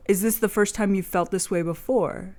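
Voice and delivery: even, unbothered question with no feeling in it; flat stoic monotone. Retold or imitated. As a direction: ask it like he doesn't give a damn, a light imitation. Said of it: "in the most fucking monotone, stoic".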